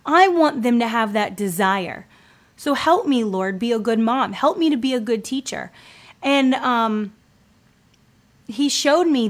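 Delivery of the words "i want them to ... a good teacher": retold prayer. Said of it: "I was praying and I said".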